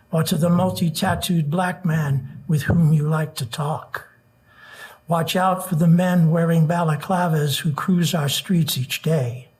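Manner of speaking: earnest rhythmic poem recital; nervous open mic poet. Acted. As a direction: build the refrain with urgency. Reads protest poem aloud.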